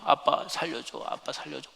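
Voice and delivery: understated begging, barely projected; dying child's plea. Retold or imitated. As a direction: imitate a child weakly begging for help. Dying son begging again.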